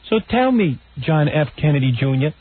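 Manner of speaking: high-pitched mocking interviewer impression; Barbara Walters. Radio host mocking an interviewer to co-host, high imitation. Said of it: "this is how she talks".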